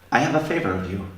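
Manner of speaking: thick Canadian accent, lightly imitated; a hint of a Canadian accent. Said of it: "in this thick Canadian accent".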